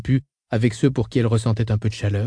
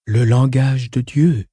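slow quoted phrase; slower than usual. Acted. Quoting Sital's phrase.

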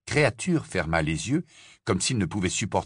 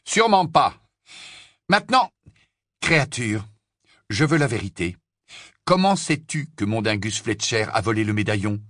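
Harry, stern; 2 semitones higher, 4 dB louder than usual. Acted. Harry demands the truth from Kreacher. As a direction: press him hard for the truth.

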